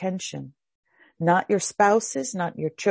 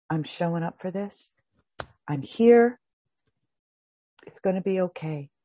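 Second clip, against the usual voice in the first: soothing inner voice. Shown as a demonstration.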